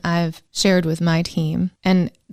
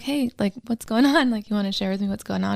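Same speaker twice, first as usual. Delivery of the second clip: gentle and soft; 3 semitones higher, 5 dB quieter than usual. Retold or imitated. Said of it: "And instead I'm like".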